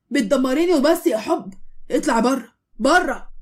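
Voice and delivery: angry, loud scolding; yelling at her. Acted. Husband scolds his wife to her face, angry yelling. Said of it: "عمال يزعق في وشها".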